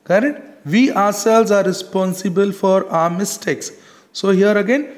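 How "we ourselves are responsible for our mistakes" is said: "We ourselves" lifted and firm; emphatic example, leaning on "We ourselves"; stress on ourselves. Shown as a demonstration. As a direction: put the weight on "We ourselves". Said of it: "we are putting a emphasis".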